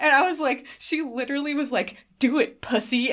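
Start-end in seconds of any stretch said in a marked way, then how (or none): 2.2-3.1 higher-pitched goading dare; imitated yelled taunt. Taya goading the henchman, mock yelled taunt. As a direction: goad him with a mock yell. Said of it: "kept fucking yelling".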